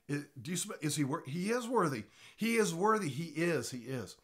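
high, chatty musing about him; chatty mock third person. Shown as a demonstration. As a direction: ask it like gossip across the room. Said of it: "saying to you".

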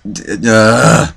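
wordless, drawn-out "uh" of frustration; frustrated groan. Real, not acted. Gamer losing the match, fed-up groan. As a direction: give up on words and groan. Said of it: "that describes my mood fully".

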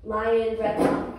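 put-on mother roaring the lion breath for her child; breathy lion roar. Shown as a demonstration. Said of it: "how to do lion breath".

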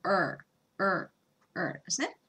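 "er" as a long tensed r vowel; er sound demo. Shown as a demonstration. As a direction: voice "er" with the tongue cupped and tight. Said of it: "音としては". (舌を力ませた「er」の発音)

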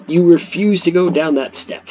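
loud, exasperated complaint; exasperated shout. Real, not acted. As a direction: yell at the stubborn units. Annoyed at unit.

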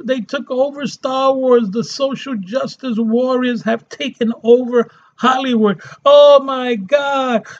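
high, whiny mockery of a fan; mocking whiny fan voice; mock whiny complainer. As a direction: whine like an outraged fan. Mocking complainers about Hollywood.

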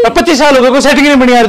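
heated, hurried grievance; angry complaint. Real, not acted. Single man blaming women for his loneliness, angry. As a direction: complain crossly, voice pushed up. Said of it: "इतना गुस्सा करते हो".

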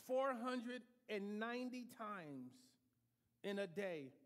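four hundred and ninety spelled out slowly, each word leaned on; slow stressed number. Real, not acted. Preacher to congregation, four slowly pressed.

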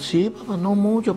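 put-on lightly high little girl answering; a hint of an eight-year-old girl; child voice. Daughter answers father.

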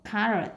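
"carrot" stressed on CAR, the first syllable. Shown as a demonstration. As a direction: hit the start of "carrot", CAR. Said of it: "nhấn âm một".

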